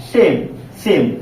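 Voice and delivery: सेम said slowly with a long drawn-out e; teacher modelling the long e in सेम twice, slowly; long vowel demo. Shown as a demonstration. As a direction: stretch the vowel in सेम, slow and clear. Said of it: "इसका उच्चारण होगा लंबा".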